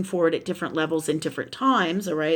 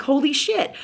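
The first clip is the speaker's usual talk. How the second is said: high, exasperated exclamation; frustrated; 7 semitones higher than usual. Retold or imitated. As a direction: retell fed-up disbelief. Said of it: "I've been super frustrated".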